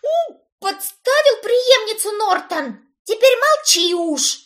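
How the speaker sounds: high angry scolding, slow. A narrator's reading. Brit swinging at her brother, high and angry. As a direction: scold him, raising a hand. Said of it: "Замахнулась на него Брит".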